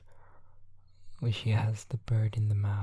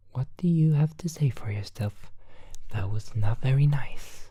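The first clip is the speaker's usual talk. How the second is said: higher whispered scolding; stern Thea; 3 semitones higher than usual. Acted. Thea scolding the captured parrot in a high whisper. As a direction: scold the thief, hushed but firm. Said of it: "Thea says".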